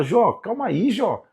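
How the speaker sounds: God reminding Job he is not forgotten. Acted. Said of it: "ele fala".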